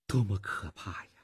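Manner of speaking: softly spoken, hushed horror; quiet, understated dismay; low voice, trembling. A narrator's reading. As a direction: say it low and subdued, as if deeply shaken. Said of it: "他低声地说".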